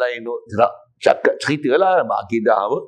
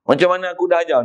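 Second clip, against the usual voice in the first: higher, mildly chiding teacher; a hint of a master correcting; teacher's rebuke; 4 semitones higher, faster than usual. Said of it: "Macam tu kot bahasa dia sebut". (teguran guru yang ringan)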